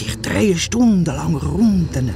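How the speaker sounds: slow grand Standard German, hushed; proud Standard German. Acted. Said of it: "redet er einen Moment plötzlich Schriftdeutsch".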